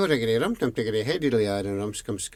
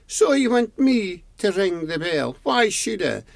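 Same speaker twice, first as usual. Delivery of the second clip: put-on grumpy old man; 8 semitones higher than usual. A narrator's reading. Grumpy old bell keeper.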